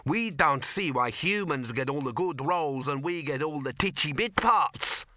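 lightly voiced dwarf complaint; aggrieved dwarf.

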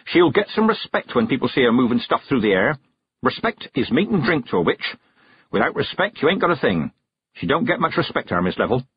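lightly voiced, blunt rustic witch; a hint of a gruff country crone; stern old witch.

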